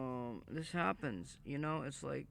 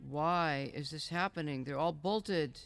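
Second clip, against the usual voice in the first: exasperated outburst; 3 semitones higher, 5 dB louder than usual. Real, not acted. Frustrated streamer, stuck in game.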